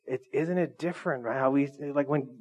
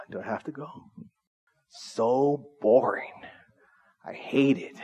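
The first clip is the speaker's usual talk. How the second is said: put-on slow, bored child's whine; whiny kid; 3 semitones lower, 4 dB quieter, slower than usual. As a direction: drag it out like a kid who hates church. Himself as a kid dreading church.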